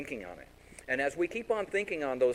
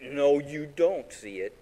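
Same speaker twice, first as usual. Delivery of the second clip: put-on slow, louder kid protest; mock sulky denial; 5 dB louder, slower than usual. Kid denies a smile to mom, slow mock sulk. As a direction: drag out a pretend pouty refusal. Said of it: "'cause I'm mad".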